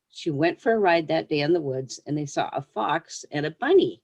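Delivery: gentle read-aloud storytelling voice; story reading. Acted. Author reading her pony story to young listeners, storyteller voice. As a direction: read it like a picture book to children.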